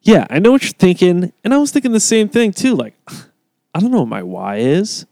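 high, loud mock motivational speaker; seminar guru parody. Mocking the seminar guy's pitch, high, loud parody voice. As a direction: ham up a smug self-help guru. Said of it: "they all have the approach of".

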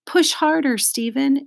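high-pitched urging; encouraging. A narrator's reading. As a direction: cheer a classmate on at a high pitch. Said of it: "encouraged Joe".

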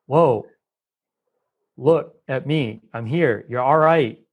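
slow, soothing reassurance; calming co-regulator. Retold or imitated. Co-regulator soothing a stressed friend, slow and calm. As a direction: talk a panicking friend down gently. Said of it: "to come and say".

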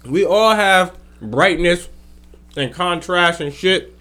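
talking while chewing salad; words round a bite of food; mouth full. Real, not acted. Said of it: "I'm eating my fucking Caesar salad".

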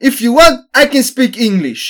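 high, loud snooty offer; lofty put-down, imitating a rude driver; condescending attitude. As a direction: sneer it like a smug local. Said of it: "med värsta attityden".

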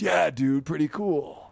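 lightly done laid-back wrestler; Rob Van Dam voice. Retold or imitated. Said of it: "I could do the Rob Van Dam voice".

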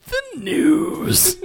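whispered echo through a laugh. Pretend. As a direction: breathe it out, giggling. Host echoes the cue, laughing.

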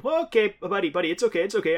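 acted-out dad calming his child; retold consoling. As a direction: soothe an upset little kid, slightly flustered.

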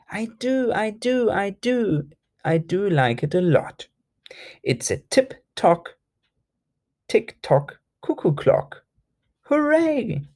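high happy gushing; delighted. Acted. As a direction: bubble over with joy. Croc delighted with present.

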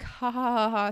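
mock laugh, spelled-out ha-has; polite laugh. Reacting to a first teasing, imitated laugh. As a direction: fake an amused laugh. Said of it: "the first time it was like".

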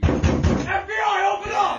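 booming FBI raid shout, slow; grave federal agent. Pretend. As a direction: bellow it like an agent at the door.

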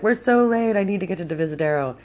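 high, urgent retold plea; stressed-out urgency. Rider pleads with the Lyft driver, stressed and urgent. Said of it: "I was super stressed out".

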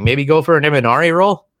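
unsure suggestion, rising at the end; tentative corner advice lifted into a question. Retold or imitated. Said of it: "said it like almost like a question".

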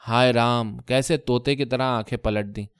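mild tearful lament, کیسے fading down; wife's complaint turning to tears; choking up. Acted. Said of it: "کہتے کہتے ان کا گلا بھر آیا تھا".

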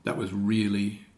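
grave understatement from down in the register; deep authority voice. Shown as a demonstration. Coach demonstrating authority over a pancake, deep and serious. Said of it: "It's my voice of authority".

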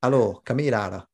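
"Hello, come here, Ara" said as a Gaelic greeting; Gaelic pronunciation. Shown as a demonstration. Man showing friends "Hello, come here, Ara" in Gaelic pronunciation. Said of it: "in Gaelic".

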